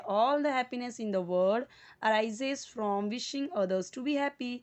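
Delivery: very slow, each word spaced out; slow read-aloud. Shown as a demonstration. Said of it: "repeat कीजिए after me".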